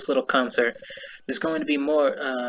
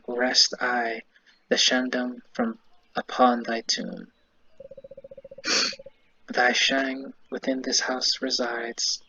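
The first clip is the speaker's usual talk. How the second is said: solemn incantation; slower than usual. Acted. Archaic grave-side incantation.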